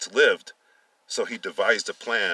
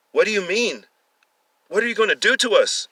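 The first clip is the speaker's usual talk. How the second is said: high, fast panicked pleas; terrified questions; 11 semitones higher, 7 dB louder, faster than usual. Acted. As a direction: beg to know their fate in fear. Captives fear for their lives.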